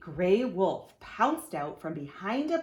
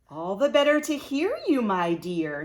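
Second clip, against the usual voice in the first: bright, much higher and louder, cheerful; 4 semitones higher, 8 dB louder than usual. Acted. Wolf disguised as Grandma answering the girl, cheerful and loud. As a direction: answer with cheery false charm. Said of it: "in a cheerful voice".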